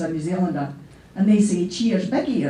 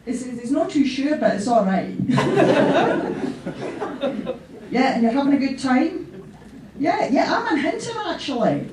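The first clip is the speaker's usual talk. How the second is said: laughing one-sided phone chat, louder and higher; pretend phone call; 3 semitones higher, 5 dB louder than usual. At the memorial, faking a phone call from Alec in heaven, laughing. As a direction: hold a giddy fake call with the dead. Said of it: "there's a phone call here".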